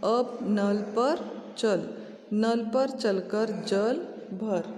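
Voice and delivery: very slow, word by word to pupils; teacher dictating sentences very slowly; slow dictation reading. Acted. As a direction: read each sentence for children to repeat. Teacher reads practice sentences slowly.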